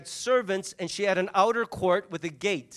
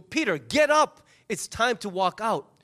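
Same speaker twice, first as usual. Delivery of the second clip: insistent wake-up; slower than usual. Acted. Angel shaking groggy Peter awake, slow insistent call. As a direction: drag the words out to rouse a sleeper.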